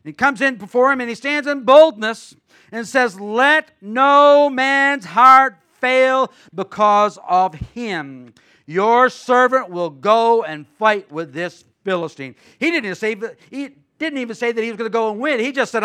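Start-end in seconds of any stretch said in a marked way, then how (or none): 3.2-12.3 slow, loud, bold declaration; a preacher voicing brave David. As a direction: stand tall and declare it. Preacher reading David's bold words.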